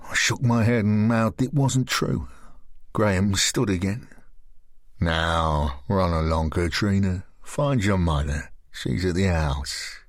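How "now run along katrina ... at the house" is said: lower, slow menacing man; lower, slow sinister man; Graham's voice. Acted.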